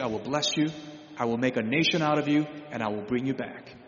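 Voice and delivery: lightly voiced God, rising then settling; a hint of God promising, warmly; God reassuring Jacob. Paraphrasing God speaking to Jacob.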